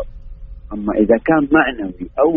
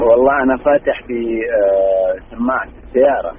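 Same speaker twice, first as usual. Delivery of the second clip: car speakerphone. Real, not acted. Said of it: "الصوت مو بواضح".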